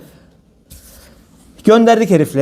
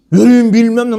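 louder, higher mock yell of "Yürüyün"; imitated yell; 4 semitones higher, 4 dB louder than usual. Mimicking the shopkeeper yelling at children, mock shout. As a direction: bark "Yürüyün" like a shopkeeper shooing kids. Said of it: "Nasıl bağırıyor çocuklara?".

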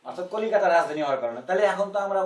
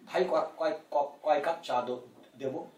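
mock stilted drama Bangla; 3 dB quieter than usual. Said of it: "আর নাটকে গিয়ে বলতে হবে যে".

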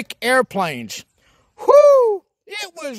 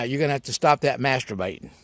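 doctor's voice; 10 semitones lower, 6 dB quieter, faster than usual. Retold or imitated. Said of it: "He says".

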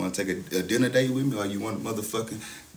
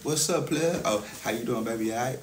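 confident greeting. Retold or imitated. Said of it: "And now".

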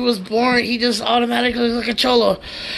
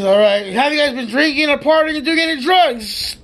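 questioning cop; 5 semitones higher, 3 dB louder than usual. Retold or imitated.

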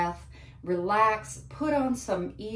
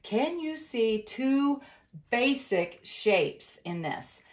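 slow, sing-song teacher voice; kindergarten teacher voice; slower than usual. Real, not acted. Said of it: "I sound like a kindergarten teacher".

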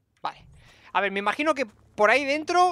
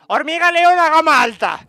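higher and louder, announcing the enemy; excited exclamation; 7 semitones higher, 11 dB louder than usual. Real, not acted. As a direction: hype up the boss ant.

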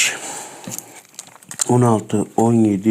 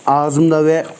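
chewing gum. Real, not acted. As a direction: mouth full of gum. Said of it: "Şu an ağzımda".

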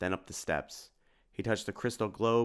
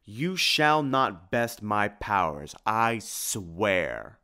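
slow, loud menacing vow; a vampire swearing revenge; Dracula's vow; 5 dB louder, much slower than usual. Acted. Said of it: "cried the voice of Dracula".

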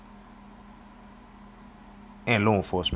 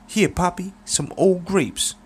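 put-on much higher and slow, savoring "some old grapes"; slow high Clever; 11 semitones higher, slower than usual. Clever presents the old man with wine, high and slow. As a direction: offer the gift slowly, sly and pleased.

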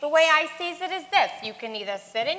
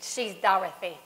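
whisper; 8 semitones lower, 7 dB quieter than usual. Acted. Aside while introducing her friend.

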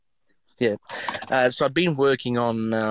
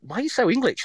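imitated locals; 11 semitones higher than usual. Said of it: "everyone's like".

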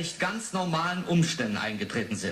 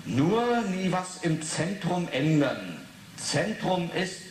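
reading the poem; slower than usual. Acted. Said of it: "reads poem aloud".

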